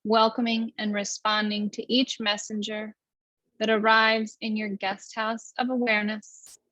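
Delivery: even, unhurried meditation guidance; guided meditation. Acted. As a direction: lead the breath calmly, with long pauses.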